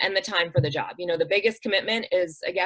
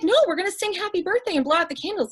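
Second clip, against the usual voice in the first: cheerful guardian; 10 semitones higher, faster than usual. Retold or imitated. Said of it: "And she's like".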